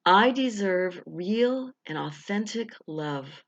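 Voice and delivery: slow, deliberate affirmation. Shown as a demonstration. Coach leading the first of three affirmations, slow. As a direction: let each word land slowly. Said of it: "Here's the breath".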